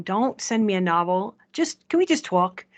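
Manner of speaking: put-on a light New York accent, pushy; mock New Yorker who wants to just talk. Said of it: "In my best New York accent".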